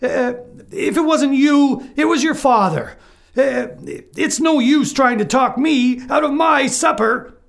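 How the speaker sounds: loud, high, bullying wolf; the wolf waving away excuses, loud and high. A narrator's reading. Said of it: "replied the wolf".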